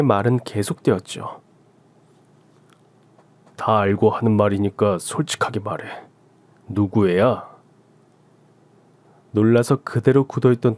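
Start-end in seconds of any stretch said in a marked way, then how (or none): 3.6-7.5 cold husband. Acted. Husband coldly asking his wife whose baby it is, lower. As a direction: ask it coldly, no warmth.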